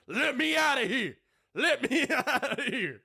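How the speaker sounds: high, whiny plea to get out; begging trapped creature. Acted. Trapped kitty begging to escape, high whine. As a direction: wail like something clawing at a cage. Cat begging inside chastity belt.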